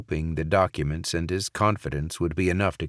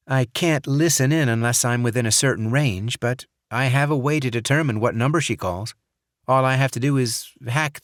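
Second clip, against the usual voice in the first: Jazz's voice, higher and louder, eager tech talk; Jazz voiced; 6 semitones higher, 4 dB louder than usual. A narrator's reading. Jazz explains phone tracking to Barrett, higher and louder. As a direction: rattle off the tech plan, raised.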